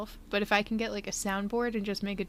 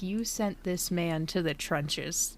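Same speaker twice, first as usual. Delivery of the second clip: mock war story; 3 semitones lower, slower than usual. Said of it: "and it was like".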